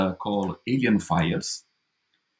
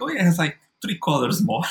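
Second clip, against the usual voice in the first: mock enthusiasm; 7 semitones higher than usual.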